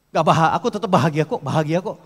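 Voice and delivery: loud, fast insistence that one is happy; forced happy claim. Shown as a demonstration. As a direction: snap out the word bahagia like a defensive boast. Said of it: "tapi gini ngomongnya". (bahagia diucapkan cepat dan keras dengan nada menantang)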